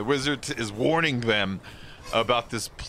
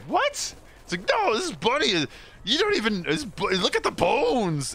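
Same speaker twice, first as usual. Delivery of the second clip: much higher, frantic pleading about the bunny; panicked high insistence; 10 semitones higher than usual. Retold or imitated. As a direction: squeal the warning in alarm.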